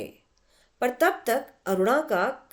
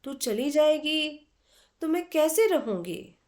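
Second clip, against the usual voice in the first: sad; 6 semitones higher than usual. A narrator's reading. Aruna asks her departing friend how she will manage, saddened. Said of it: "उदासी भरे स्वर में".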